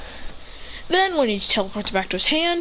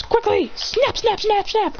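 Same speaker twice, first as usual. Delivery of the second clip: high, rushed "snap, snap"; frantic hurry; 11 semitones higher, slower than usual. Acted. Christian frantically snapping to flee upward, hurried.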